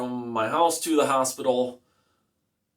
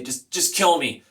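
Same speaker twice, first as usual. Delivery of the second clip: mildly raised, urgent begging; retold screaming plea; 3 semitones higher than usual. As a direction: re-enact desperate pleading without a full scream. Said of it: "the way I was screaming".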